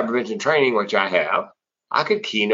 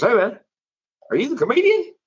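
mock woman voice; 14 semitones higher than usual.

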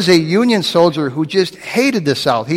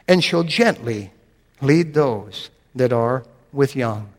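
scripture reading; slower than usual. Acted. Reading Isaiah forty eleven.

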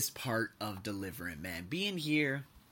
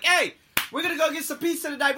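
loud, high mock announcement of pizza; promising dad; 8 dB louder than usual. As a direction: shout it like a dad making a big promise. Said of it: "He's like".

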